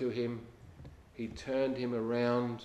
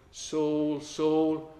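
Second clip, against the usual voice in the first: raised, calling voice of the Lord; 4 semitones higher, 6 dB louder than usual. Acted. The Lord calling out to Saul on the Damascus Road, raised and ringing. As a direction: call his name out across the road, higher and louder. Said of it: "and says to him".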